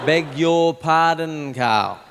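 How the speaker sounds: very slow, pointed beg your pardon; insistent father. Retold or imitated. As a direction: drag each word out as a mock stern dad. Dad insisting slowly.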